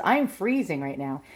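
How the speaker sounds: a slight shiver in the voice; shivering cold. Real, not acted. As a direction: still cold from outside.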